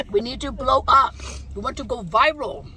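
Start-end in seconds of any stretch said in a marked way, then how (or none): 1.5-2.7 put-on East Asian accent. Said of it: "Why did you sound Asian when you said viral?".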